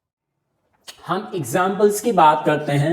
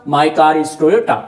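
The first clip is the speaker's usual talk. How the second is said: slow example; 2 semitones lower, much slower than usual. Shown as a demonstration. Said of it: "तो my car".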